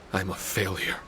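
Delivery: quiet, defeated admission; dejected. Acted. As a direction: say it softly, beaten down. Sighs, calls self failure.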